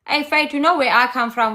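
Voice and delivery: normal talking voice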